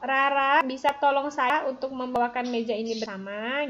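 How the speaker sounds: teacher demonstrating a polite request; polite request example. Shown as a demonstration. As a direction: model a kind request to a classmate. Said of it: "Contoh kalimat permohonan tolong".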